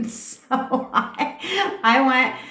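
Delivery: words squeezed out through a high laugh; laughing too hard to get going. Real, not acted. Laughing to the viewers while starting her dating story.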